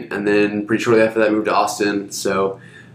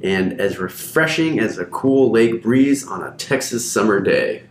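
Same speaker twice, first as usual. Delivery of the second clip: ad read; 2 semitones higher than usual. Acted. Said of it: "Who wrote that?".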